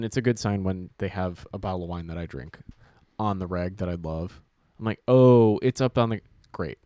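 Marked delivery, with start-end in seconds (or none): 5.1-6.8 loud, eager, high-pitched delight; excited. Retold or imitated. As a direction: grab it, thrilled and greedy. Excited about the wine and takeaway.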